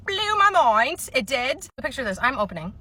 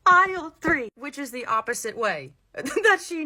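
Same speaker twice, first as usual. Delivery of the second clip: high, loud, drawn-out disbelief; amused, loudly incredulous echo; incredulous laugh; 6 semitones higher, 3 dB louder than usual. Acted. Incredulous laughing at wrong aisle.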